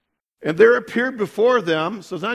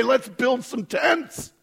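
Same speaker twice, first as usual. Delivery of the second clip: excited Peter; 7 semitones higher, much slower than usual. Retold or imitated. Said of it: "And what does he say?".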